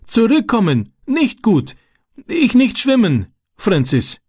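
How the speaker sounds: very high, frightened begging; desperate pleading. A narrator's reading. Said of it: "flehte er und breitete bittend seine Hände aus". (verzweifelt flehend, sehr hohe Stimme)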